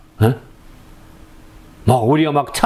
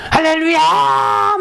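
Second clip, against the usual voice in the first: high, slow, stretched-out 할렐루야 shout; overacted hallelujah; 14 semitones higher, much slower than usual. Shown as a demonstration. Preacher modelling over-the-top praise for the congregation, long high shout. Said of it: "오버액션 해보시죠".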